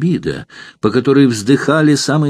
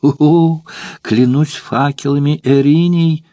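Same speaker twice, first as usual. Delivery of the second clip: exclaiming; 5 semitones higher, slower than usual. Acted. Courtesan hearing Spartacus loves Valeria, crying out. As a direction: cry out the oath in alarm. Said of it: "вскричала молодая женщина".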